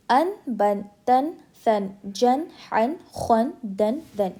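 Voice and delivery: "अन, बन, तन" recited with a clear final n; clear izhar. Shown as a demonstration. Teacher drilling izhar as written, clear n endings. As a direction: drill each syllable like "अन" exactly as written, n fully sounded. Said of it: "जैसा लिखा हुआ है हमें वैसे ही पढ़ना है".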